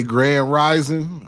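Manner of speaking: slow drawn-out Grand Rising; slow, syrupy mock greeting. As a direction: stretch it like a smooth pickup line. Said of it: "if you hear a man say".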